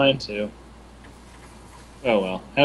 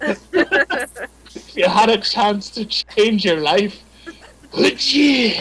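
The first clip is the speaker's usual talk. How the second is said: dramatic; 4 semitones higher, much slower than usual. Acted. Dramatic slow game-show style read.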